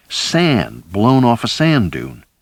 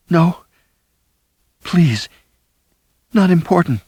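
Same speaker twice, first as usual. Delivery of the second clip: high, faint, begging no; dying wife pleading; weak pleading refusal; 10 semitones higher than usual. A narrator's reading. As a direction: refuse gently but firmly.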